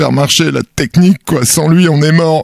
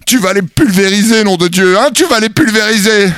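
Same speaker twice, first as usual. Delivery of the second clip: drill sergeant; 5 semitones higher than usual. Acted. Pep talk before war.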